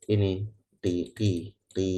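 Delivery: ki said short, slowly; kasroh demo. Shown as a demonstration. Teacher showing a short kasroh sound. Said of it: "gambarannya kurang lebih seperti".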